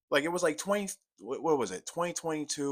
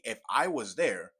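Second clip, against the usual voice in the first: genuine; 3 dB louder than usual. Real, not acted. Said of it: "but genuinely".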